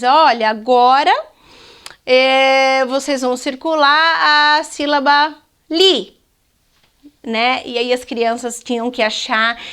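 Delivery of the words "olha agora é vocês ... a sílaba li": teacher announcing. Shown as a demonstration. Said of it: "E o professor diz".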